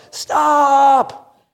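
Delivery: sharp high shout of stop; retold yell. Father yells at son running toward the street, high shout. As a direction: yell it like a father seeing danger. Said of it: "I yell at the top of my lungs".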